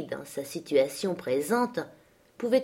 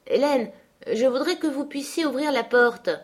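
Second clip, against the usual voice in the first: put-on a girl's anxious plea, higher; worried low voice; 8 semitones higher than usual. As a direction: urgently ask Hélène to open the door. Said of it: "de même d'un ton inquiet". (inquiète, à voix basse, plus aiguë)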